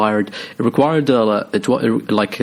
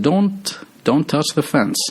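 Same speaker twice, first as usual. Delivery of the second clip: agitated; 7 semitones higher than usual. Retold or imitated. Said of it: "super agitated".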